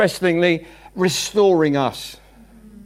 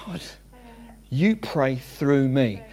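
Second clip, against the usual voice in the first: quiet prayer; 7 semitones lower, 7 dB quieter, slower than usual. Shown as a demonstration. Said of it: "but because I'm saying".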